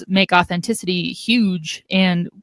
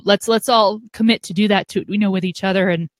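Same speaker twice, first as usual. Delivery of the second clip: choking up. Real, not acted. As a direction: voice catching on something in the throat. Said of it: "I'm choking up because there's something in my throat".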